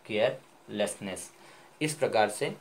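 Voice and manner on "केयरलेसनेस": slow whole word. Shown as a demonstration. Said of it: "तो ये क्या, टूट के".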